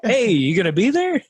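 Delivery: Alex Becker. Retold or imitated. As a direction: nag like an online hype man. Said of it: "That's a good Alex Becker impression".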